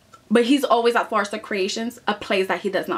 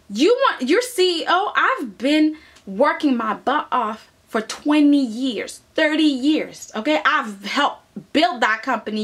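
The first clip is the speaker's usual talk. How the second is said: indignant rant. Retold or imitated. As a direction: vent like a passed-over employee. Acted rival ranting at Steffi.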